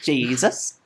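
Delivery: a hint of a sweet Sunday school teacher. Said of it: "Sunday school teacher voice".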